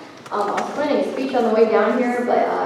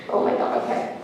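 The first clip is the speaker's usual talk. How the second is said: holding back tears; 5 dB quieter than usual. Real, not acted. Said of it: "I'm gonna cry".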